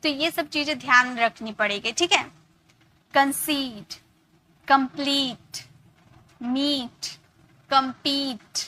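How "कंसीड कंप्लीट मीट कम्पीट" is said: long "ee" in कंसीड, कंप्लीट, मीट, कम्पीट; stretched long vowel. Shown as a demonstration. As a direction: draw out the ee in each word, कंसीड to कम्पीट. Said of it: "टान कर हम लेते हैं".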